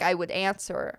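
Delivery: ordinary talk, nothing marked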